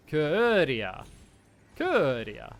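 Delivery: Køøria with a front rounded vowel, falling; trying the vowel. Shown as a demonstration. Repeating the corrected vowel for a friend. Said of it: "you're saying u like u".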